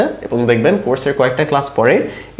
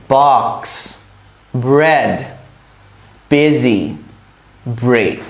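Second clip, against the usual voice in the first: one word at a time, long pause after each; careful model words with gaps left between them; pausing for repetition; much slower than usual. Shown as a demonstration. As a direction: call out each word and wait for the class to echo. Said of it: "আমি বলবো, একটু থামবো".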